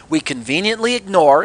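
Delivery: pointed sarcasm, lifted and stressed; sarcastic. Real, not acted. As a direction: lean sarcastically on the words. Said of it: "sarcasm in my voice".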